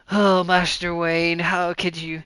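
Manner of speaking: slow, drawn-out disappointed butler, lightly voiced; Alfred. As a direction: stretch it out like a weary butler scolding. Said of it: "Alfred's in the background going like".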